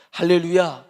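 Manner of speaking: a loud preacher's hallelujah; rousing call to the church. Real, not acted. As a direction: ring it out to the congregation.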